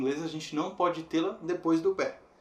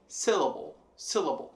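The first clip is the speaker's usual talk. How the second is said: "syllable" with a strong "syl", then falling; stress on first syllable. Shown as a demonstration. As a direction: lean on the opening of "syllable". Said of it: "C vai ser a forte". ("syllable" com a primeira sílaba forte)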